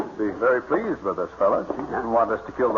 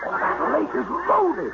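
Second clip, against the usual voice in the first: excited; slower than usual. Acted. Sees the ducks on lake.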